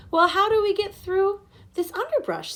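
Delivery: urgent question. A narrator's reading. Boy asks the father how to get through, urgent. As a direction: press the adult for a way through.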